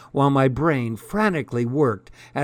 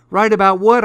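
loud, high alarmed question; startled; 8 semitones higher, 9 dB louder, faster than usual. Acted. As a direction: sound caught off guard. Startled by insult.

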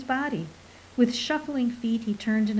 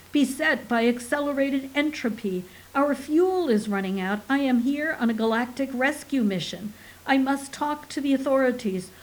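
thundering; 3 semitones higher than usual. Acted. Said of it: "Mintkill thundered".

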